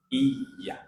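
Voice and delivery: 'Iya' as 'iy-ya', mid-tongue near the palate. Shown as a demonstration. Teacher showing where ya comes out, pressed y. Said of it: "mendekat ke langit-langit".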